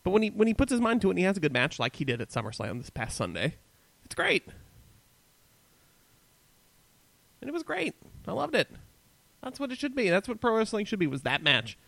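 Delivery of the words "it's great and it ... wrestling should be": excited. Real, not acted. Gushing about the SummerSlam match.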